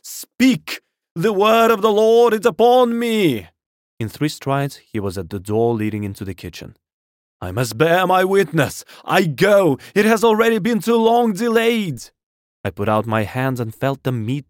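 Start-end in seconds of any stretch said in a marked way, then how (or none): 0.0-3.5 high, ringing prophetic proclamation; top-of-voice shout. A narrator's reading. Curate standing with arms extended, high fervent shouting. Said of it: "shouted the curate at the top of his voice". 7.4-12.1 high, insistent zealot's cry; loud shouted declaration. A narrator's reading. Curate heads for the kitchen door, high loud proclaiming. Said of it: "shouted the curate at the top of his voice".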